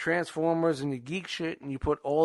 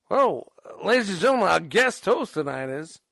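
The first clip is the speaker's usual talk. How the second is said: announcer voice; 3 dB louder than usual. Pretend. Announcing a guest host.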